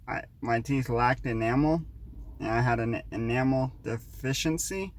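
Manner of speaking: new-denture lisp on sibilants. Real, not acted. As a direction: talk with a slight lisp. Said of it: "I still have a lisp".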